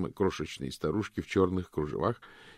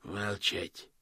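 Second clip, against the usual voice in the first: calm; 7 dB quieter than usual. Acted. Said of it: "спокойно перебил Космо".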